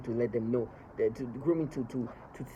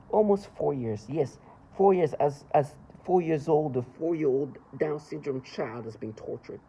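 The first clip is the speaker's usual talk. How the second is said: angry; 3 semitones higher, 4 dB louder, slower than usual. Real, not acted. Angry rant about torture.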